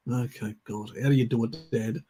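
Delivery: weary, resigned retort; retold exasperation. Carer answering fussy dad, mildly exasperated. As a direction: give in with a put-upon sigh in the voice.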